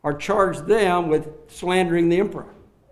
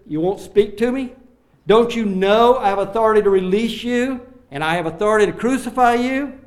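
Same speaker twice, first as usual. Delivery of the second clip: higher and louder, pressing hard; indignant demand; 5 semitones higher, 5 dB louder than usual. Acted. Pilate pressing the silent Jesus, loud and indignant. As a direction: lean on him for an answer.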